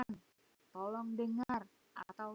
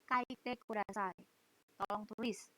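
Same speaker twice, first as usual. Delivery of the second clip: teacher instruction; 3 semitones lower than usual. Retold or imitated. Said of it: "saya akan bilang".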